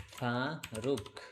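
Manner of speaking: ফারুক very slowly, split as ফা and রুক; drawn-out syllables. Shown as a demonstration. Teacher sounding out ফারুক while writing it, drawn-out syllables.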